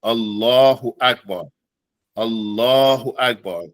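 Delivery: slow, even Allahu Akbar with no break; teacher showing the two words go together; Allahu Akbar said as a demo. Shown as a demonstration. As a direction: join Allahu and Akbar smoothly. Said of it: "Number three and four, they go together".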